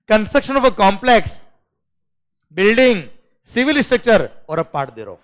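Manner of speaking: very slow, word by word legal reading; slow dictation. Shown as a demonstration. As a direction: spell out each word of the clause slowly. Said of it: "अब मैं fast बोलूंगा sir".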